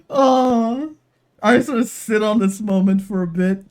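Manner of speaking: usual speaking voice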